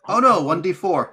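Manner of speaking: loud, high, slow fake dismay; mock dismay. Game master teasing player about gun damage, mock dismay. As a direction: pretend it is terrible news, playfully overdone. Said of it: "No, I'm just kidding".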